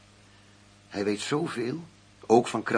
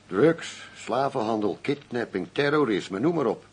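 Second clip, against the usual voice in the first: heated rant; 3 semitones higher, 5 dB louder, slower than usual. Acted. Agent rants about crime list.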